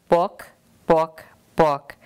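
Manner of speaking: clucked book book; hen's book cluck. Acted. Grandma reading the title as a clucking hen.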